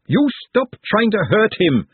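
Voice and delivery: high, drawn-out angry yell; screamed. A narrator's reading. Glenda defending Nut from the sisters, screamed order. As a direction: yell it high, each word stretched. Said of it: "she screamed".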